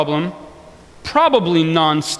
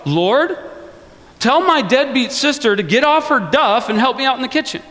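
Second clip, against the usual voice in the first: bossy demand; 6 semitones higher than usual. Retold or imitated. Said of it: "She's just like".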